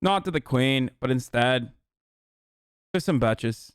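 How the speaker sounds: put-on Irish accent, falling away. Streamer parodying a loyalty appeal, Irish accent. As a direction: play the rousing speaker in mock Irish. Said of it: "do an Irish accent".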